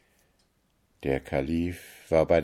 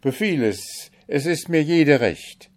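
higher, louder, willing cry; eager consent; 9 semitones higher, 5 dB louder than usual. A narrator's reading. Kalif eagerly accepts the owl's condition, higher and louder. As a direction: agree to anything at once. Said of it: "rief Chasid".

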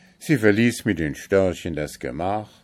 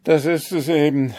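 higher, louder, sighing reply; 9 semitones higher, 7 dB louder than usual. A narrator's reading. Kalif sighs to the vizier over the unknown bride. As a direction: sigh with drooping wings. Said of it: "seufzte der Kalif".

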